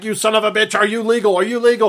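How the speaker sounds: hammed-up confrontational questioning; mock interrogation. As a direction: play-act a biker grilling someone. Bikers confronting the man, retold.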